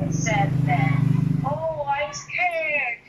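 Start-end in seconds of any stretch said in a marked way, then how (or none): 1.4-3.0 mock scared. Shown as a demonstration. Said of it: "that one is an exclamatory".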